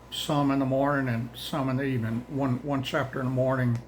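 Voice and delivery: winded, rushing the words; breathless, gasping between phrases; out of breath. Real, not acted. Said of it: "and I'm out of breath".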